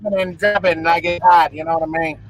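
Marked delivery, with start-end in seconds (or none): 0.0-0.8 lively powwow MC announcing the dancers; mock powwow MC. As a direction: call the dancers out like an MC. Imitating a powwow MC.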